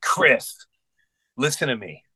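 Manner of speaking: measured, earnest appeal, with pauses; retold serious insistence, softening; dead serious. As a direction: make him listen, quietly firm. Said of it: "I was dead serious".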